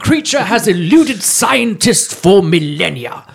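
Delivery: hushed, awed wildlife narrator, laughing; nature documentary. Pretend.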